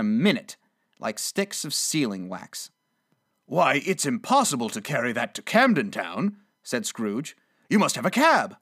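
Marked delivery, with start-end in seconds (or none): 3.5-6.4 lightly voiced merry old man; mildly amused exclamation; chuckling delight. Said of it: "The chuckle with which he said this". 7.7-8.6 higher, louder merry insistence; a touch of glee, pitched up; chuckling delight. Acted. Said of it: "The chuckle with which he said this".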